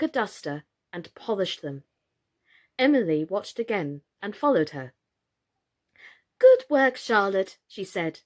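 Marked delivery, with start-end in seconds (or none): 6.4-7.6 loud, high praise; praising call. A narrator's reading. Emily praising loudly.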